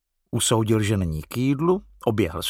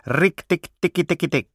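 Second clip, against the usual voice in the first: light, high-pitched little war cry; mildly voiced war cry; 6 semitones higher than usual. A narrator's reading. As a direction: rattle off a small animal's battle call. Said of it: "vyrážel válečný pokřik".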